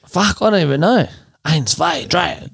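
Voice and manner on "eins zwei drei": mock German counting; German accent. Co-host dodging a Russian request, mock German. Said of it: "that's German. Let's go that".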